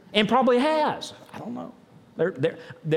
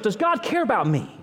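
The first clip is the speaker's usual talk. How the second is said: earnest question. Acted. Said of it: "Ask yourself".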